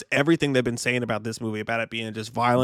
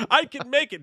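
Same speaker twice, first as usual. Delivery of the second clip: high-pitched mock heroic firefighter; jokey actor impression; Dennis Leary; 12 semitones higher than usual. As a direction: pitch it way up, playfully gung-ho. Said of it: "Dennis Leary from Rescue Me shows up".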